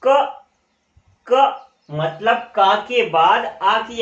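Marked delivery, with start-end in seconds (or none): 0.0-0.4 "क" said alone and a bit higher, a clear ka; sounding out ka. Shown as a demonstration. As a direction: model "क" for the class to repeat. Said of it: "तो इसको बोलो क". ("क" को अलग से साफ़ बोलकर दिखाएँ)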